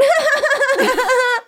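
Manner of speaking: high, loud, crazed laughter; maniacal cackle. Acted. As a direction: cackle shrilly like a mad villain. Villain cackles after chant.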